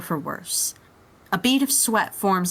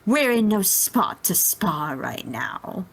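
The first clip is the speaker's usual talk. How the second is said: smug villain; slower than usual. Acted. Frieza speaking to Turnip.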